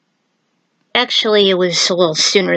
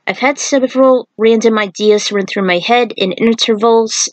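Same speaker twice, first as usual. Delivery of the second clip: reading aloud. Acted. Reads the author's note aloud.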